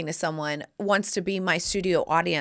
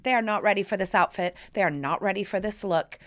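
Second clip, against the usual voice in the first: put-on sassy kid diva. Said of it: "the stop signs going".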